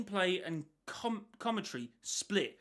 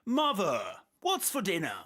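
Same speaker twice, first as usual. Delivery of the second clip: a put-on stiff, higher delivery, for a laugh; mock formal voice; 3 semitones higher, 3 dB louder than usual. Podcaster joking how creators talk at home, mock stiff voice. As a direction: say it like a stilted narrator.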